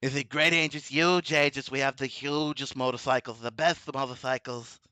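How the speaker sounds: lightly voiced boastful politician; Trump. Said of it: "I've done the Trump voice before".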